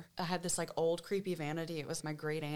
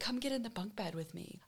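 hushed; 3 semitones higher, 5 dB quieter than usual. Retold or imitated. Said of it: "she was like".

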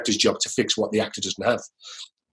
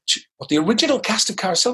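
retold surprise; 9 semitones higher than usual. Retold shock at old castmate.

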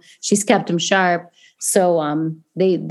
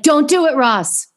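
mock plea; 7 semitones higher than usual. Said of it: "literally, they're like".

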